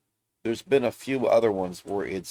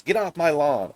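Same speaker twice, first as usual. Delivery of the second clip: put-on a louder, higher cranky old man's "Get off my lawn"; grumpy old man yelling; 7 semitones higher, 4 dB louder than usual. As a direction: play a grouchy old man yelling at kids on his lawn. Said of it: "old man yelling at the sky".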